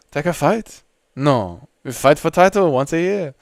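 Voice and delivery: lightly hammed-up French accent; mock French accent. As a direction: play the French fighter refusing a bout. French fighter impression continues.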